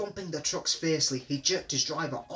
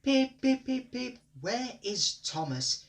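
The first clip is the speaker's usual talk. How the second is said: fussing engine; 10 semitones higher, slower than usual. A narrator's reading. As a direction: fret like a late little engine. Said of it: "fussed Edward".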